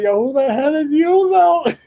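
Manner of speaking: high, put-on anime character voice; imitating a character. Anime fighter confronting the surrounded hero, high mock voice. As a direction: squeak it out high like a cartoon tough guy. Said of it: "He's like".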